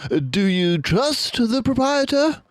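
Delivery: detective turning to the father, gently; Basil, gentle. A narrator's reading. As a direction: ask gently but firmly. Basil asks.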